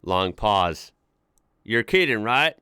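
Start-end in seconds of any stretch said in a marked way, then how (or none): 1.6-2.5 mild disbelief in a put-on Texan voice; a touch of incredulity. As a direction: ask it as a doubting Texan. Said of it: "he says in disbelief".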